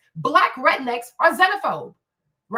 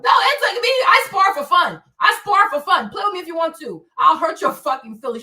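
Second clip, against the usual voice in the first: ordinary talk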